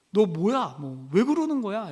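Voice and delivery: reproachful. Acted. Coworkers challenge Mordecai for not bowing, mock reproach. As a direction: take a coworker to task. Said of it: "이렇게 총-, 책망하는 거죠".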